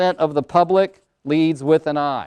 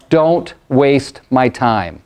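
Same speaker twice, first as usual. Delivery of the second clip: slow and louder, each word weighted; impatient D-type line; 4 semitones lower, 4 dB louder, much slower than usual. Retold or imitated. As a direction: lay down the pet peeve firmly. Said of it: "They do have a pet peeve".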